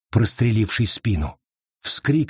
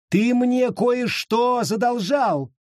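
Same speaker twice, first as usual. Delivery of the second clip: high, slow, shouted threat; menacing witch; 11 semitones higher, slower than usual. Acted. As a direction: loom over him, demand the debt.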